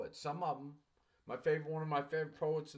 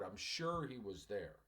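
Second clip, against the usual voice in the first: corrected sentence, softly; 6 semitones lower, 5 dB quieter than usual. Shown as a demonstration. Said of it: "the student missed the word".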